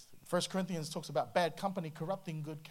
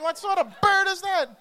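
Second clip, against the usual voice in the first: high, loud, laughing; laughing disbelief; 14 semitones higher, 11 dB louder than usual. Real, not acted. Pastor joking to church about birds, laughing disbelief.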